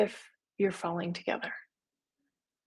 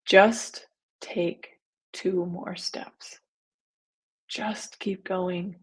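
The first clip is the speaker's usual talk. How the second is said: gentle encouragement; much slower than usual. Real, not acted. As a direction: ease them forward step by step. Coaching listeners through hard times.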